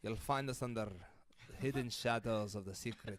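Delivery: put-on harsh Scottish accent with rolled R. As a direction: plug it in a rough Scottish accent. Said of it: "I'm gonna go Scottish on this one".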